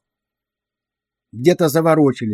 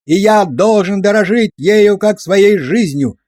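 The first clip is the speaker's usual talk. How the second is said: loud, higher chanted yell; yelling in chorus; 5 semitones higher, 5 dB louder, slower than usual. A narrator's reading. Recruits roar the rifle prayer back at the sergeant, loud yell. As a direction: bellow it back like a platoon drilled to scream. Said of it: "орал взвод".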